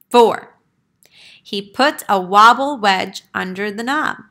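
read-aloud counting, each number punched; lively picture-book narration; storybook counting. A narrator's reading. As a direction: count the steps out for the kids. Counting steps read to children.

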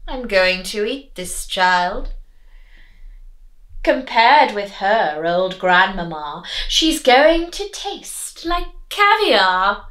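sly, gloating wolf; wolf thinking. Acted. Wolf plotting to eat the girl, gloating inner voice. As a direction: savour the thought, then slow down. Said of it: "He thought".

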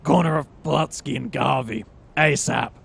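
loud gruff detective growl; noir Batman. Acted. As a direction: bark it like a brooding vigilante. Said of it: "yeah, Batman, but with, like, a hint of noir".

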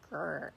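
brief mock growl of frustration; frustrated growl. Woman recalls being upset before sleep, frustrated growl. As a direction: let out a small, understated "grr". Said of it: "I just was really upset".

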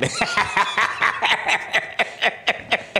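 long breathy voiceless laugh; drawn-out run of quick chuckles; laughter. Real, not acted. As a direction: laugh it out in wheezy bursts. Guest laughing on his own.

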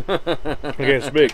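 words slowed by a mouthful; mouth full. Real, not acted. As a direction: talk around a bite of food. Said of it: "and I had my mouth full".

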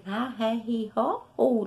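ré, ri, ro, ru with a throaty strong r; strong r syllables. Shown as a demonstration. Teacher drills the strong double-r sound, syllable by syllable. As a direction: voice the r hard from the throat in each syllable. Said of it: "a gente só diz".

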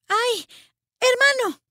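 the rhyme just clicked; excited exclamation. Acted. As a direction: leap on the rhyme with delight.

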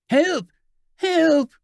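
high, loud, desperate calls for help; distant wailing cry. A narrator's reading. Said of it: "issued a crying voice, half wailing".

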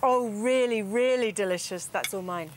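talking with mouth full. Real, not acted. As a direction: speak around a mouthful of food. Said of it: "I'm talking with my mouth full".

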